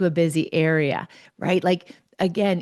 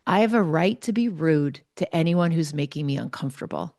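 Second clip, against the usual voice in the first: imitating calm, matter-of-fact confidence; confident. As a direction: state it as a settled fact. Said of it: "with the most confidence said".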